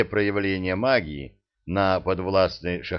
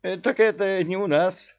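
whiny emir voice; 11 semitones higher than usual. Acted.

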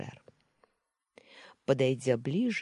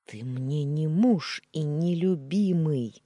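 slow hiss, stress on муж; a wary, hissing denial; hissed, wary retort; 3 semitones higher, 5 dB louder, slower than usual. Acted. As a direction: hiss it out slowly, leaning on муж. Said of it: "прошипела я с опаской".

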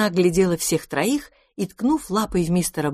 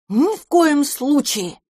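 chorus shout; 9 semitones higher, slower than usual. A narrator's reading. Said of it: "закричали все хором".

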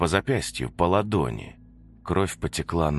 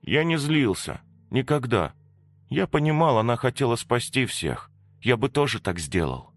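put-on higher, gentle child's voice; little boy; 8 semitones higher than usual. Little Petya tells Masha he never blamed her, lightly voiced. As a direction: speak simply like a small boy.

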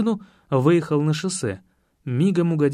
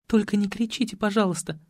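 put-on pleading girl; 5 semitones higher than usual. A narrator's reading. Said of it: "взмолилась незнакомка".

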